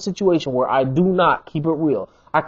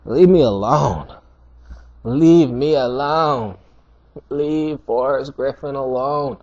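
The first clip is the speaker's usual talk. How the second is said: pleading fighter; slower than usual. Retold or imitated. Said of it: "Forrest was like".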